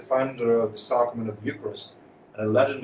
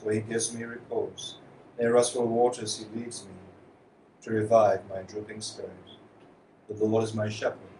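solemn responsorial psalm, softening at each refrain; psalm reading. Acted. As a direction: proclaim each verse to the congregation. Psalm proclaimed at Mass.

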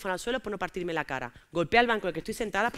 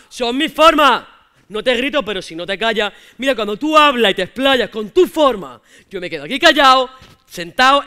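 put-on 1 boyfriend yelling; 11 dB louder, slower than usual. Boyfriend's aggressive rant voiced.

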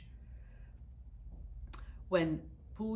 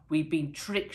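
mild mock shout; 6 dB louder than usual. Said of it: "shouted the agriculture minister".

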